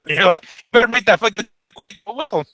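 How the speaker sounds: glitchy robotic audio; choppy robot-sounding connection. Real, not acted. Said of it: "you sounded like a total robot right now".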